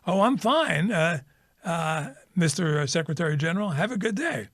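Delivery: high, chirpy sun voice; a cheerful sun answering brightly; sing-song, chipper reply. Retold or imitated. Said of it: "comes back very chipperly".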